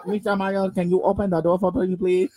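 put-on a light Korean accent on Mister Mayo; imitating Korean accent. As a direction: retell the teacher in a hint of Korean accent. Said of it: "he's has a heavy Korean accent".

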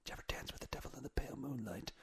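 hushed, fast, menacing breathy line; quoting a villain's line in a near-silent hiss; whispered movie villain impression. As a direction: whisper it like a creepy film villain. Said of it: "who needs a sound machine when you got impressions like me".

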